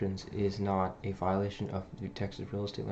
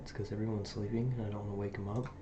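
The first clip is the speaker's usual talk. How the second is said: quiet at night; 5 dB quieter than usual. Real, not acted. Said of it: "why I'm talking this quiet".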